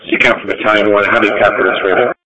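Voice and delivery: staticky radio cutting in and out; broken-up walkie talkie transmission; crackly construction walkie talkie. Real, not acted.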